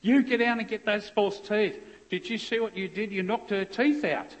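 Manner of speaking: high, loud outraged order; shocked scolding. Retold or imitated. Social worker yelling at the officer, shocked and loud. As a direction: bark it like a horrified onlooker. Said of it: "she said to me".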